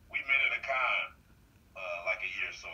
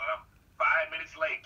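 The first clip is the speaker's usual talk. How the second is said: usual speaking voice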